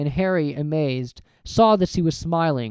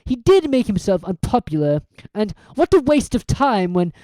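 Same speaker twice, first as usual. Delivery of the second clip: cold villain; 7 semitones higher, 4 dB louder than usual. Acted. Quirrell's cold gloating.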